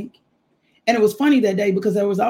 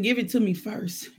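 commanding man of God; 3 semitones higher, slower than usual. Retold or imitated.

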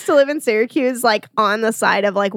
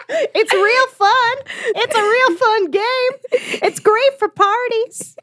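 weird party guest; 10 semitones higher than usual. Acted. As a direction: pitch it up and stretch each phrase.

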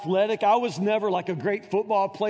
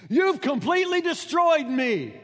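raised, aggrieved father's lament; mock anguished father; 6 semitones higher than usual. Preacher voices Jephthah blaming his daughter, aggrieved mock lament. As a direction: whine the blame onto her. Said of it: "he cried out".

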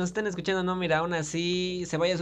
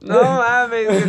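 loud exclamation; 5 semitones higher, 10 dB louder, slower than usual. Real, not acted. Reacting to a friend's teasing.

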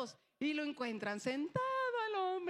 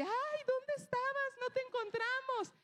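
put-on little girl; 11 semitones higher than usual. Girl asking the boy where he was, high and childlike. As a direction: chirp it like a small girl.

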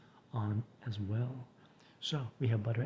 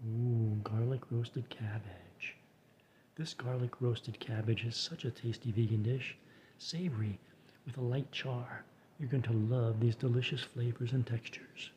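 Frasier Crane voice. Retold or imitated. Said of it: "I'll use my Frasier Crane voice".

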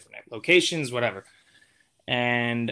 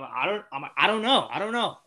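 flustered denial; 5 semitones higher than usual. Retold or imitated.

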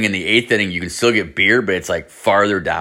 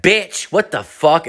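high, drawn-out imitation of her outrage; mock outraged girl; 8 semitones higher, slower than usual. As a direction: put on an indignant, higher female voice. Retold girl reacting to insult.

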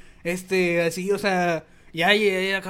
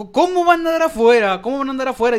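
pregunta incrédula, aguda y fuerte; no puede creer que estén afuera; sorpresa incrédula; 6 semitones higher, 6 dB louder than usual. Retold or imitated. Incredulidad al recibir el mensaje. (asombro incrédulo, agudo y fuerte)

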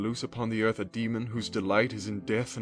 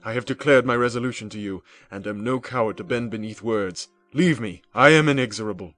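angry rebuke; 2 semitones higher, 8 dB louder than usual. A narrator's reading. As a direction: cut him off with contempt. Victor rebukes the creature.

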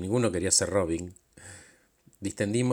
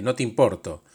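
louder, accusing complaint; raised voice; 4 dB louder than usual. Retold or imitated. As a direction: raise the voice to confront him. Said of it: "le levanté la voz".

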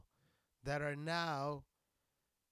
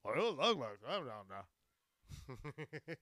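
throaty put-on caricature; mock excited local; 3 semitones lower, slower than usual. People reacting to which part of Texas, throaty mock excitement. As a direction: imitate someone reacting with garbled excitement. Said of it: "they're like".

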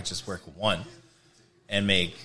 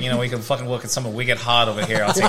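put-on Boston accent; 6 dB louder than usual. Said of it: "Are you still doing that Boston accent?".

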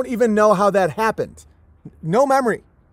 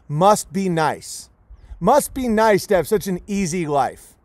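mocking critic. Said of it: "look at me and say".

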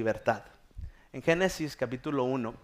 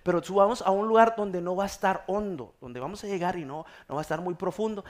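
higher, lightly imitated mom; mother giving in; 5 semitones higher than usual. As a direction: agree with mock reluctance.

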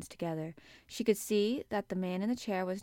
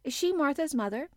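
put-on high, hesitant child; nervous little girl's halting question; stammering; 7 semitones higher, 5 dB louder than usual. A narrator's reading. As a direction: stammer it out timidly, pitched up. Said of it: "she stammered".

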